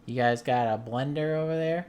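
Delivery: mock yell across to the next yard; imitated yelling. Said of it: "he was kinda yelling over there".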